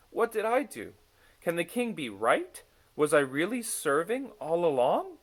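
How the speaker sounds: high, loud little messenger voice, anxious questions; Smuggins, doubting. A narrator's reading. Smuggins wonders why the king crowned him, anxiously.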